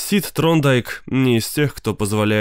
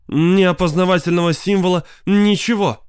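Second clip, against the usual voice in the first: a loud, much higher wail; wife wailing to her husband; 7 semitones higher, 4 dB louder than usual. Acted. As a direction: howl it out in distress. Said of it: "взвыла Кластер".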